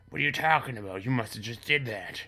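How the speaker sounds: mock indignation. Father denies blame to his son, mock indignant.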